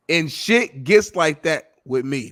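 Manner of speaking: slow, savoring repeat of the quote; slow deadpan quote. Retold or imitated. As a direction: lean into each word. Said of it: "repeats quote".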